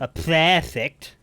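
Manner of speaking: drawn-out, exaggerated Australian accent; mocking Australian accent. Player mocking the game actor, mock Australian accent. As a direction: mimic his Australian accent, stretching it out slowly.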